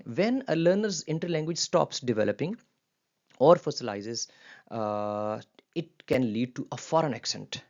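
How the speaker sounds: slow, careful reading of a textbook sentence; reading aloud. Shown as a demonstration. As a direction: read it out slowly for the class. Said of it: "ये sentence पढ़ लें". (धीमे-धीमे वाक्य पढ़ना)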